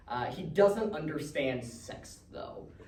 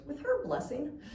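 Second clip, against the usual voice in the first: sincere; 10 semitones higher, 4 dB quieter than usual. Retold or imitated. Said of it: "with all the sincerity in the world".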